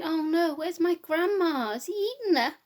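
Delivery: Red Riding Hood panicking about Grandma; worried girl. Acted. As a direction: fret aloud, voice climbing.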